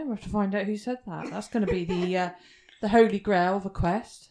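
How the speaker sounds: talking with a mouthful; mouth full. Real, not acted. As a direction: speak through a bite of food. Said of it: "you don't usually talk with your mouth full".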